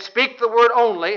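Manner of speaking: "word" lifted and stressed. Acted. Preacher requoting the centurion's faith, stress on "word". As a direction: put the weight on "word". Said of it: "Notice emphasis on the word".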